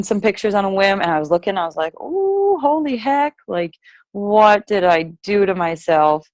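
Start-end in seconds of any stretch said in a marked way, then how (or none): 2.0-6.3 dismayed. Retold or imitated. Reacting to her own photo.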